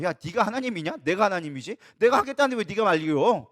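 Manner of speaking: a lightly voiced stern God, rebuking; God rebukes the questioning prophet, lightly voiced; God's voice. Preacher voices God scolding Habakkuk, lightly stern. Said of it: "제가 그냥 하나님 말 표현을 한 거예요".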